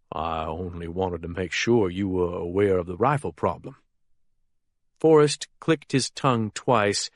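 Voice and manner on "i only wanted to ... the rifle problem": lower, timid explanation; nervous man covering himself; nervous henchman voice. A narrator's reading.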